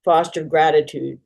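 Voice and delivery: measured list-poem recital with long pauses; poem reading. Acted. Poet reading a poem from writing class, measured incantatory recital. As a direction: lead each line with a deliberate "Foster", then let it settle. Reads own poem aloud.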